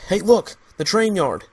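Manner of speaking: loud, high shout of discovery; excited call. Acted. Father spotting the train yard, excited loud call. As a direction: call out the find with a jolt.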